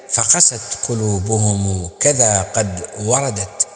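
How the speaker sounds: measured, chanted poem recital; Arabic didactic verse recital; poem recitation. Acted.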